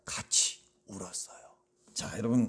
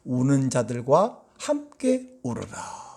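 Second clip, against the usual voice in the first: gentle quote; 6 semitones lower, 4 dB quieter, slower than usual. Retold or imitated. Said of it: "우리 예수님은 이렇게 말했어요".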